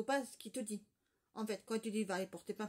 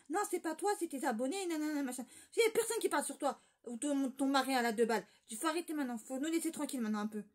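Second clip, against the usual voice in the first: exasperated telling-off; 4 semitones higher than usual. Retold or imitated. Retelling how she told Morgane off on her live, exasperated and raised. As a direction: lay down the law, sick of hearing it.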